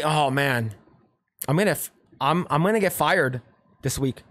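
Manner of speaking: low-key, dejected role-play; mock downcast confiding. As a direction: play a worker glumly sharing bad news. Acting a man sharing bad news.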